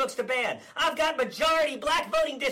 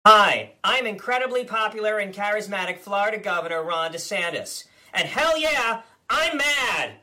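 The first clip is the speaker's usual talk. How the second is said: blustering politician impression, smug and combative; Ron DeSantis parody. Comedian as DeSantis ranting at the press, blustering. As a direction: play the governor as a cocky blowhard.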